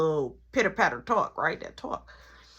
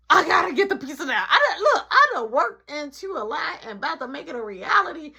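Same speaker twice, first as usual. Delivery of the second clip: laughing; 6 semitones higher than usual. Real, not acted. Laughing about lie becoming real.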